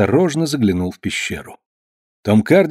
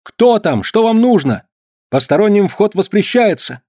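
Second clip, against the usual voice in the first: higher, louder alarmed challenge; loud shout; 9 semitones higher than usual. A narrator's reading. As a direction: shout at intruders. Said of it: "громко закричал". (громкий окрик)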